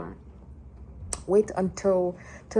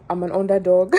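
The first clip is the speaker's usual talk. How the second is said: mock self-pity; 8 dB louder than usual. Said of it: "tendency to be panicked, to do the".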